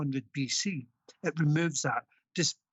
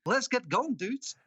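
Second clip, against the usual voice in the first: higher, hammed-up American dude voice; best American accent; 7 semitones higher than usual. Guest rallying the hosts, mock American accent. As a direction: play an American surfer dude. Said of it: "your best American accent".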